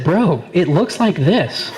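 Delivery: slow, laughing through the words. Retold or imitated. Mocking buddy's pie photo, slow and laughing. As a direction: crack up while saying it slowly.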